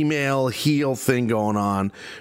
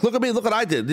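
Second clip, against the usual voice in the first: mock fangirl; 8 semitones higher, faster than usual. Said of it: "Than, than the fangirl".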